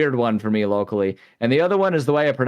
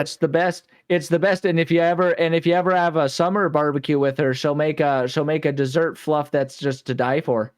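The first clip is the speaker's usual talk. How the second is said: put-on Minnesota accent; 3 semitones higher than usual. Continues the Minnesota accent bit.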